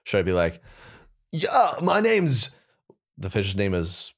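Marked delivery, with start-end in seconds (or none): 1.3-2.5 high, drawn-out goofy fish voice; dumb fish. Acted. Auditioning for a Nickelodeon fish character, dumb fish voice. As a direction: play a dopey cartoon fish, slow and high. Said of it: "like, the, the dumb fish kinda".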